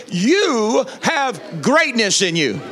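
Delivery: slow, deliberate conviction; like you mean it. Shown as a demonstration. Pastor modelling conviction for the congregation, slow and firm. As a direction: press each word home slowly. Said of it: "say this like you mean it".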